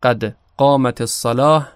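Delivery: قد with the dal bouncing slightly towards kasra; qalqala on dal. Shown as a demonstration. Teacher showing students the bouncing dal in قد قامت الصلاة. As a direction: let the د of قد echo lightly. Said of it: "حرف دال رو داره".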